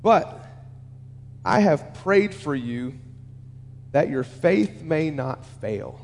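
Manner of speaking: slow, low, softened delivery with long pauses; gentle reassurance. Acted. Jesus telling Peter he prayed for him, gently. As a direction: let each phrase sink in, slowly and low. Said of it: "here's what Jesus says to Peter".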